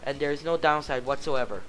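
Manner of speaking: lightly voiced eager teacher pitching her job; a hint of a keen recruiter; earnest teacher. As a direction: sell teaching with a touch of zeal. Teacher character voice at booth.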